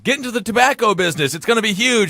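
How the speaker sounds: excited father. Acted. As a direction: play a dad pitching his son, lightly. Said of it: "when his father said".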